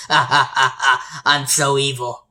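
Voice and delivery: slow, hammed-up villain laugh and boast; mock evil villain. Game host voices the killer gloating, mock evil. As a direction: play a cartoonishly evil villain.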